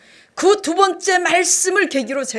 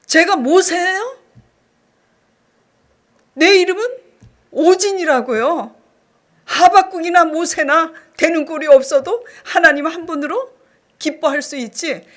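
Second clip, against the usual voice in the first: higher, louder indignant protest; defiant outburst; 4 semitones higher, 6 dB louder than usual. Retold or imitated. Arguing with God over the verse, loud indignant challenge. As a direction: insist on her own name, loud and defiant. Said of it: "하나님께 이렇게 대들었어요".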